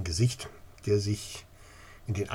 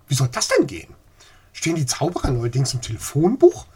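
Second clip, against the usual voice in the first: sarcastic; 4 semitones higher, 7 dB louder, faster than usual. Acted. Skeptical lady mocks the idea.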